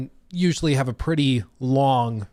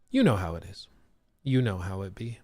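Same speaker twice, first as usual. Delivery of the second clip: mock slang; 3 semitones lower, 5 dB quieter than usual. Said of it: "It do be good".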